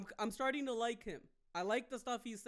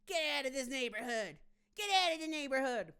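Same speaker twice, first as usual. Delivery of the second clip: a touch of high, rising challenge; mild mock confrontation; 5 semitones higher, 4 dB louder than usual. Man running ice out of the neighborhood, lightly acted anger. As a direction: chase them off the street.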